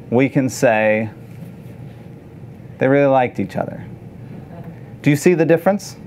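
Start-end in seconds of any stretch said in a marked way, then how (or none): 2.8-3.8 quick, offhand, bland summary; boring way. Shown as a demonstration. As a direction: rattle it off like a dull report. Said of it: "we can say it in a very boring way".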